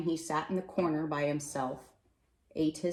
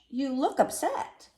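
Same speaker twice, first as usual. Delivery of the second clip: higher, slow and gently concerned; concerned Mister Hatch; 9 semitones higher, 3 dB louder than usual. Acted. Mister Hatch to the upset postman, slow and caring. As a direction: lean in, noticing his friend is troubled.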